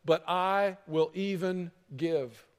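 slow, sincere giving; generous. Shown as a demonstration. Preacher voicing the transformed heart, slow and sincere. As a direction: draw it out slowly, sincerely. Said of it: "but a heart that turns and says".

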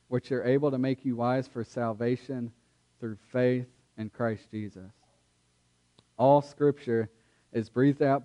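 measured, steady Bible reading; scripture reading. Acted. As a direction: read the passage with solemn care. Reads scripture aloud before sermon.

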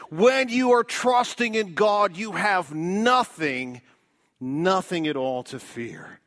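slow, weighty stress on nothing; emphatic repeat. Shown as a demonstration. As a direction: lean hard on nothing, nothing at all. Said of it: "I wanna say that just one more time".

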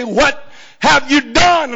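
ordinary delivery

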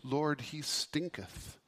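slow, chuckling quote; a laughing King James reading; amused. Real, not acted. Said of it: "I love how the King James Version puts it".

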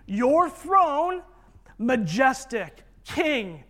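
ringing, forceful address to royalty; exalting proclamation. Acted. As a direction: proclaim it like hailing a king. Preacher voices the Father addressing Son.

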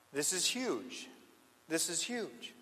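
suddenly soft, weighty aside; hushed emphasis. Real, not acted. Preacher marking how huge this is, hushed. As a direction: drop the volume to let it sink in. Hushed awe after loud climax.

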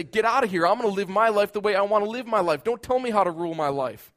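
loud, indignant outburst; defiant shout. Acted. Preacher voicing a selfish heart on its throne, defiant shout. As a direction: push everyone away with your voice. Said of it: "to say".

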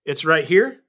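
a light touch of John Allen's delivery; lightly channel another preacher saying it; John Allen impression. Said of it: "trying to channel him a little bit".

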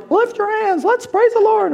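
hammed-up worship leader. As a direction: lead the church in praise. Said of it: "people up here are going".

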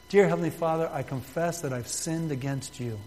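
reads the prayer line aloud for the room to follow; prayer spoken out to be repeated; leading a prayer. Shown as a demonstration. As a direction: model the words clearly for the congregation. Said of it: "And simply say this".

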